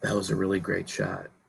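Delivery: very quiet, hushed announcer murmur. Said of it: "if this is how you announce it".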